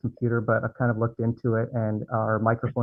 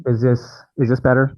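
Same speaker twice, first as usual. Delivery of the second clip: louder, testing if it carries; raised-volume mic check; speaking up for the mic; 6 dB louder than usual. Shown as a demonstration. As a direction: project into the microphone to check the level. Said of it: "You're just a little quiet".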